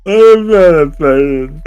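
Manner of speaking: mocking the heroine. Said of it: "And then she said".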